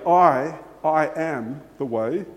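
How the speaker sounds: "I" repeated with weight, slowed; emphatic doubled I. Shown as a demonstration. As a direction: stress the doubled "I". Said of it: "for emphasis".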